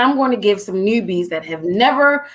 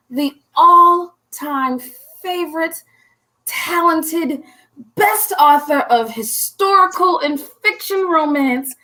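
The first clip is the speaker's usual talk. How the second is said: hype intro; 4 semitones higher than usual. Acted. Hyping the guest's introduction.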